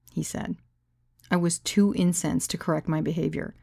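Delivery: ordinary delivery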